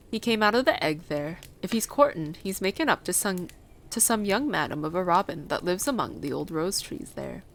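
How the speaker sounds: a hint of rustic dialect; lightly voiced old Yorkshire gardener. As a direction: lightly play the old moor man.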